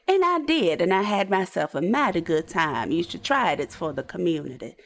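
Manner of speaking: lightly voiced, lilting character voice; unashamed role-play hussy. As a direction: own it proudly, in character.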